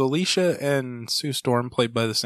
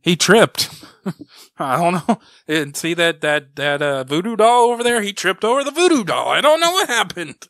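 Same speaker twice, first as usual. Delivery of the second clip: laughing guess; 7 semitones higher, 7 dB louder than usual. Real, not acted. Joking guess about villain's fall.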